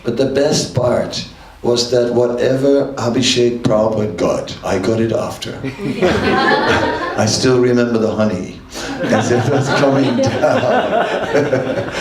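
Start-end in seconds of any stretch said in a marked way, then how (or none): 5.6-12.0 laughing through the memory, slowed. Real, not acted. Devotee laughing as he recalls the honey pouring down. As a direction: chuckle out the words as you recall it.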